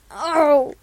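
sharp loud startled "Oh!"; a shocked, high little cry. Acted. Character gasps at a fall.

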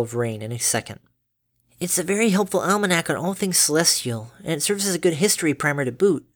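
a touch of a studious filly; polite daughter voice. Acted. Dinky voiced as child.

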